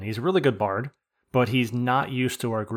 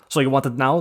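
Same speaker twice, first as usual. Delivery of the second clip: louder mock Austrian question; Hundi, Austrian accent; 2 semitones higher, 6 dB louder than usual. Player imitates group member pestering, mock Austrian accent. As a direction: ask it with a touch of Austrian accent. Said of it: "I don't know why Hundi's Austrian now".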